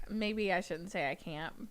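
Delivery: hushed confession, voice gone breathless; whispering. Real, not acted. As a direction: whisper it like a guilty secret. Confiding an awkward opinion.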